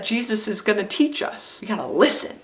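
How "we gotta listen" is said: "listen" picked out at the end; stress on LISTEN. Shown as a demonstration. Teacher urging children on Jesus's teaching, stress on "listen". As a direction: lean on "listen". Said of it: "sentence could be heard and understood".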